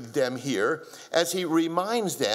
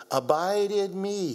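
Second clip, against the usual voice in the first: voicing Jesus; 6 semitones higher than usual. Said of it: "he said".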